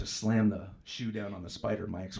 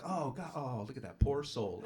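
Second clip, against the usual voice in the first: mock pity; 3 semitones higher, 3 dB quieter, slower than usual. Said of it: "I respond like you people".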